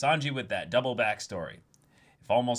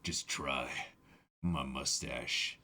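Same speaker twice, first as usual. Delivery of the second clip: Whitebeard boasting; 8 semitones lower than usual. Retold or imitated. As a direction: puff up as a proud old captain. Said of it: "Just like".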